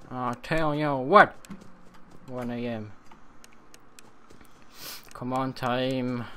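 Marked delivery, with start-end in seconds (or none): 0.1-1.3 louder repeat. Shown as a demonstration. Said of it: "repeated louder".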